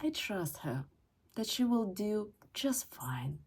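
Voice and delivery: soft, tender, fading to a whisper; soft plea ending in a whisper; gentle plea to fiance. Shown as a demonstration. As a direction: coax him softly, no pressure. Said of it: "you can say to your fiance".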